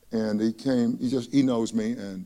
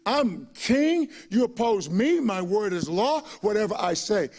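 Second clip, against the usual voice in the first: mad king; 3 semitones higher than usual. Retold or imitated. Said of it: "He was r-, mad".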